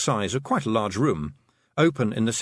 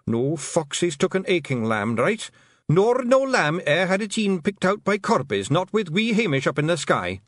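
much higher Scottish pixie, caught out; flustered Feegle; 8 semitones higher, 3 dB louder than usual. Acted. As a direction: Rob Anybody squirming under questioning. Rob Anybody continues.

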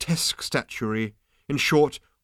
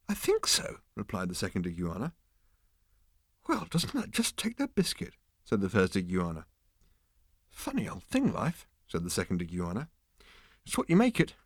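iguana voice; 5 dB quieter than usual. Acted. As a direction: voice bored giant iguanas. Iguana characters, dry.

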